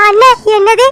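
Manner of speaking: sudden startled outcry at the news; shocked cry. Acted. Wife hearing of husband's death, a shocked outcry. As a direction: blurt it out in disbelief.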